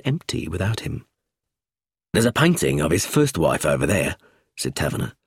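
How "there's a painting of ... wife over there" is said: lower, measured inspector voice; Taverner's voice. A narrator's reading. Inspector showing a visitor the portrait, lower and steady. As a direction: speak as a steady police inspector.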